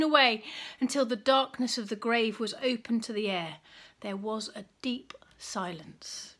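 put-on reading a Bible story aloud to children; gentle storyteller reading; story narration. A narrator's reading.

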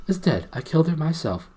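high, loud, firm declaration; stern. A narrator's reading. Prince tells gnome of the queen's death, stern. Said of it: "said the prince sternly".

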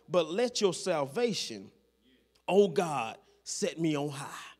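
hushed-down scripture prayer; prayerful recital. Acted. Quoting David's prayer in scripture.

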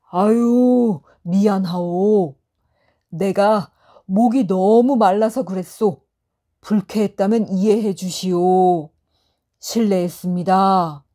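bow and beg pardon politely; polite apology. Acted. Traveler apologizing humbly to the scholar, polite voice. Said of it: "공손한 목소리로 말했답니다".

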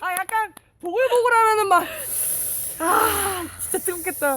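food reaction. Shown as a demonstration. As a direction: gush over the bubbling stew. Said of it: "막 이래".

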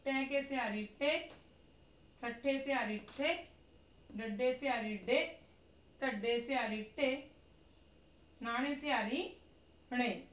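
sing-song drill reading. Shown as a demonstration. Teacher reciting muharni drill.

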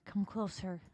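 laughing, eerie come closer; sinister chuckling octopus; creepy invitation. Acted. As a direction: lure them in with a chuckle. Octopus lures the shark.

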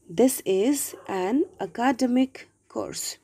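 "academic" stressed on the second syllable, a-KA-demic; misplaced word stress. Shown as a demonstration. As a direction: say "academic" as uh-KAH-duh-mik. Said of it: "the error is in my pronunciation".

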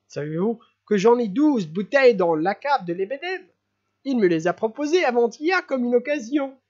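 overjoyed host inviting everyone; giddy laughing prince. Acted. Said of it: "en éclatant de rire".

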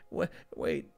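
hushed and tense; listen hard, keep it hushed. Acted. Hears voices.

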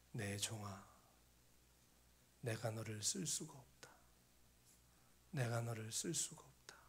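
low, hushed, sorrowful voice of God; imitated divine lament, low and weighty; sad, heavy voice. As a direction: grieve it softly, almost whispered. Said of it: "이 슬픈 목소리가 들리는 거예요".

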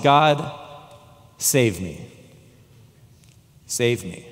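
low, soft, breathless plea; a crushed man begging God to save him; desperate cry to God. Retold or imitated. Pinned under the car, praying to God, low and soft. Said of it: "I cried out to my God".

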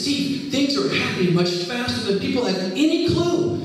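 imitating a distraught friend, pitched high; urgent, high-pitched retelling of a tearful warning; retold tearful urgency. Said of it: "he starts crying".

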